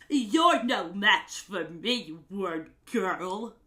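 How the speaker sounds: lightly voiced slow cartoon villain; slow, a hint of menacing taunt. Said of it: "what I remember his voice sounding like".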